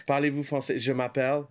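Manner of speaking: put-on English tourist accent on French; hammed-up English speaker's French; broken french. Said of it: "avec l'accent".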